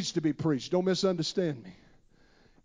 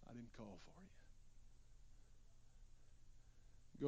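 hushed, much softer reply; Eli's soft answer; 8 semitones lower, 26 dB quieter, faster than usual. Acted. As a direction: answer the boy quietly, half asleep. Eli answers the boy quietly.

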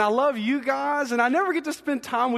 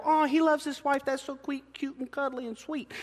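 mock gushing onlookers; 4 semitones higher, 5 dB quieter than usual. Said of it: "film my life and go".

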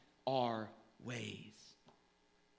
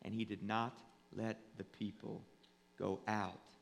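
measured Bible reading, falling away at the close; solemn scripture reading; 6 dB louder than usual. Real, not acted. Pastor reading of Pharaoh's hardened heart, solemn proclamation. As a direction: read it out with grave, deliberate pauses. Continues reading Exodus aloud.

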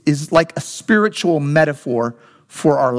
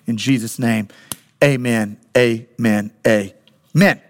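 earnest pastoral prayer, settling lower; 3 semitones lower than usual. Real, not acted. Pastor praying over the congregation before the sermon, prayerful. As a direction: lead the room in prayer, voice sinking toward the amen.

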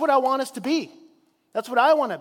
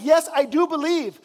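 honest prayer; 4 semitones higher, 6 dB louder than usual. Retold or imitated. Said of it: "it's an honest prayer".

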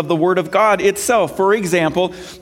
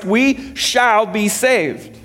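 slow emphatic; 5 semitones higher, much slower than usual. Acted.

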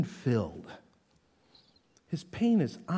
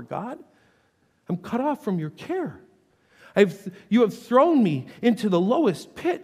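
prayerful lament; 2 semitones higher than usual. Acted. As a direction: pray it as a lament, building. Paraphrasing psalm as prayer.

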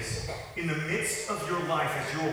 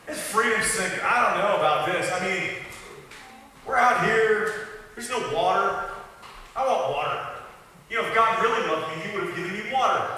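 grumbling Israelite. Retold or imitated. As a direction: moan like a thirsty ungrateful wanderer. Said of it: "and they're like".

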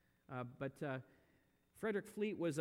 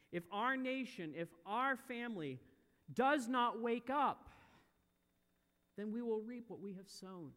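forceful warning; 6 semitones higher, 5 dB louder than usual. Real, not acted. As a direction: drive each phrase harder to a loud peak. Preacher warns congregation with rising force.

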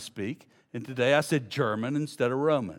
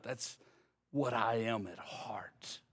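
whispered admission of the heart; hushed confession; 6 dB quieter, slower than usual. Acted. Preacher whispers the sinner's confession to the congregation. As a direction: breathe it out like a secret confession.

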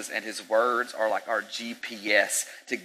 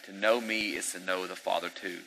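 soft quote; 2 semitones lower, 4 dB quieter than usual. Retold or imitated. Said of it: "Jesus explained".

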